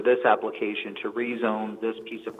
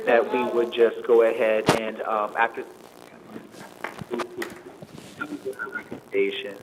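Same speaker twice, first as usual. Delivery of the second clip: underwater. Real, not acted. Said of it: "You sound like you were underwater".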